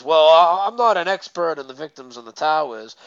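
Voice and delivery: lightly imitated brush-off; retold, lightly mocking dodge; mock sarcastic. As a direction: quote the excuse with mild sarcasm. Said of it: "in, like, a sarcastic voice".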